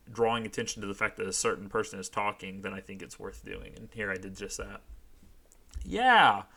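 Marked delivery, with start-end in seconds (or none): 5.8-6.4 sharp high yell; Misty's loud cheering shout. Acted. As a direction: bellow it with three exclamation points. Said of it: "shouted Misty ... Three exclamation points".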